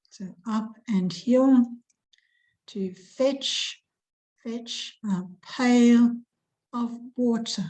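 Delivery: slow teacher stress on "pail"; stress on fetch, pail, water. Shown as a demonstration. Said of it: "Where is the emphasis".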